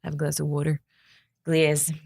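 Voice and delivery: Jersey accent with "water" said wawtuh; a light New Jersey accent on "water". Shown as a demonstration. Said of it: "Get my Jersey accent on".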